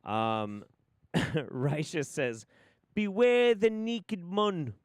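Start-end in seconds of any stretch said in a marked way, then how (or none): 2.9-4.7 high, loud, drawn-out theatrical cry; mock ominous warning. Reading out a viewer's warning, hammed-up loud proclamation. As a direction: proclaim it slowly like a hammy doomsayer.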